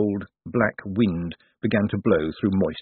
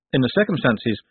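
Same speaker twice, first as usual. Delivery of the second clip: measured, dry statement from the lawyer; the lawyer states it plainly; lawyer's phrase; 4 semitones higher than usual. Acted. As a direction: lay it down flatly, matter of fact. Slant's phrase, echoed as a question.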